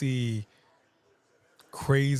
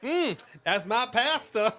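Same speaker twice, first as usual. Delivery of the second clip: laughing; 9 semitones higher than usual. Retold or imitated. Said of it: "I'm like".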